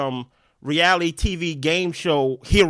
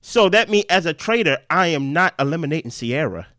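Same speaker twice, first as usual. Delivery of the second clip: deliberate, with pauses between points; slow it down so the listener follows. Real, not acted. Explaining the theory to a lost co-host, slowed down. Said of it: "let me slow it down".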